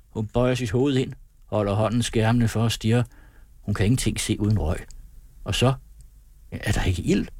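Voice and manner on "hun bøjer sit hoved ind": usual speaking voice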